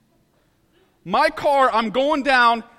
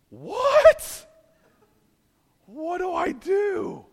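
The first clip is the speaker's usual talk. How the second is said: panicked what; 8 semitones higher, much slower than usual. Retold or imitated. Stuck in mud, at a loss.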